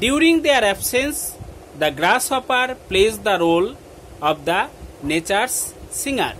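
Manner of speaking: slow phrase-by-phrase dictation; dictation reading. Acted. Teacher giving students the poem's substance, slow dictation. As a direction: dictate slowly, pausing after each short phrase.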